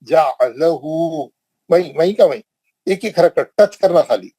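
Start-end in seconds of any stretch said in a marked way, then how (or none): 0.0-1.3 जालहु with short ja, not stretched jaa; unstretched short vowel. Shown as a demonstration. Teacher warns against stretching, reads short. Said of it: "जा नहीं बोलना".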